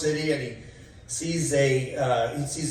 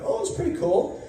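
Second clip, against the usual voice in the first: high mock Trump reply. Trump answering about heaven.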